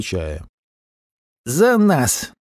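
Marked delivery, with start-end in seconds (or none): 1.4-2.3 raised toast, pitched higher; toast shout. Acted. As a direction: call out the toast. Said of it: "выкрикнул тост дикобраз". (выкрик тоста)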